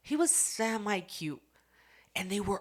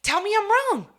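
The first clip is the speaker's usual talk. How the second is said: high, loud dare; loud challenge; 9 dB louder, much faster than usual. Real, not acted. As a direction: shout it like a dare, daring them to argue. Challenging the listener, shouted.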